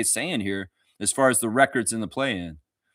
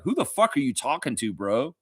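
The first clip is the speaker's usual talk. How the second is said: mock baffled outsider; 5 semitones higher than usual. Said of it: "will come in and be like".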